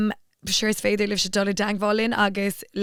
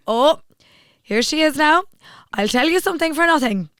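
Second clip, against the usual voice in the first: hammed-up Cork man crowing; Cork taxi driver; 6 semitones higher, 7 dB louder than usual. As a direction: taxi driver to Louise, a loud mock Cork boast. Taxi driver boasting about Cork.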